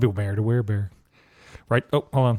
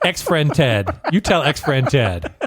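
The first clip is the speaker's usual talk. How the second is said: laughing; slower than usual. Real, not acted. Laughing while joking about friend.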